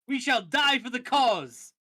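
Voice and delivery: loud, slow, high fervent vow; fervent zealot cry. Acted. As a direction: proclaim it like a fanatic. Zealot elf boy.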